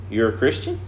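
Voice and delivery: "You're a Christian" softly, tune jumping up on Christian; soft question with a sharp rise ending "Christian". Retold or imitated. Farm coworker doubting the preacher's faith, questioning "You're a Christian". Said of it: "He said it like a question".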